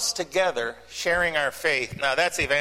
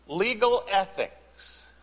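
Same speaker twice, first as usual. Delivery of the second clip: dry joke; 4 semitones higher, much slower than usual. Shown as a demonstration. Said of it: "oxymoron list, joke".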